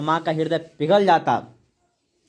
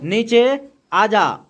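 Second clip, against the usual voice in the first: "नीचे आ जा" drawn out very slowly; recited line; much slower than usual. Shown as a demonstration. Teacher quoting the poem's mother, slow drawn-out call. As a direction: stretch "नीचे आ जा" like a mother calling. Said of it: "कहती ना".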